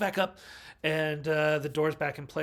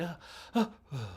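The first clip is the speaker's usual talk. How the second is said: startled gasps; 2 semitones higher, faster than usual. Retold or imitated. Imitates heroine startled by scare.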